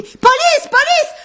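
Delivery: loud high yell for police; yelling for help. A narrator's reading. Jérôme calling police across the airport, yelling. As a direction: yell out at the top of your voice. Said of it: "Jérôme se mit à hurler".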